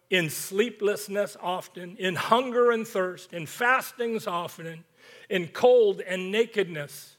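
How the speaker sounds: rising, chanted preaching cadence; scripture reading. Acted. Preacher reading Paul's hardships to the congregation, building cadence. Reads Paul's list of perils.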